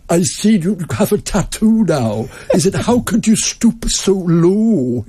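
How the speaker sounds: high, slow, laughing mock posh Belfast uncle; imitating the posh Belfast uncle's lofty scorn; disapproving posh uncle. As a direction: ham up the snooty uncle's disdain.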